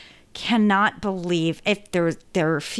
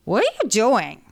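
put-on little boy voice; 3 semitones higher than usual. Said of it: "He goes, he says".

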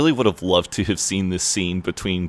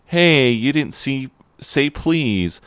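higher-pitched, acted-out complaint; retold plaintive objection; 7 semitones higher than usual. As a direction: object in a raised voice, lightly hammed-up. Retelling John's hurt objection.

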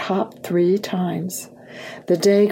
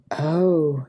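sighing; 4 semitones lower than usual. A narrator's reading. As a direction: let it sink out on a sigh. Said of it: "he sighed".

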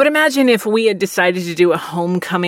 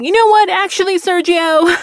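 much higher, louder teacher's sharp warning; Stidham scolding; 12 semitones higher, 4 dB louder than usual. Retold or imitated. Teacher Stidham calls out a disruptive student, high and loud. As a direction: call the kid out by name, sweetly stern. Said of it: "And Stidham was like".

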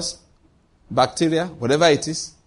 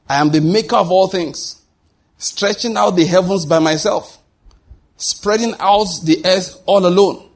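scripture reading. Acted. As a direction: proclaim the verses with solemn weight. Reads scripture aloud.

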